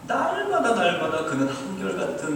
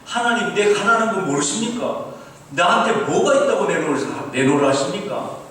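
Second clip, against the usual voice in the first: loud, higher-pitched mock indignation; heated protest; 7 semitones higher, 6 dB louder than usual. Student told to give first, acted angry protest to God. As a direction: protest hotly, imitating an outraged prayer. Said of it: "확 열이 났어요".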